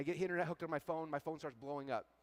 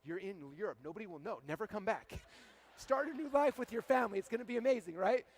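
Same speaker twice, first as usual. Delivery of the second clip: acted voice of fear, starting hushed and building louder; fear freaking out; 3 semitones higher, 4 dB louder than usual. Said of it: "Fear starts freaking out".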